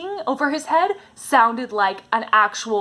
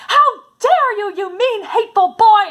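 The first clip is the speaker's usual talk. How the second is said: furious outburst; 10 semitones higher, 6 dB louder than usual. Retold or imitated. Anne to Gilbert after he calls her carrots, high furious cry. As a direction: hurl it at him, voice cracking with indignation. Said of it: "jumps up and is furious and says".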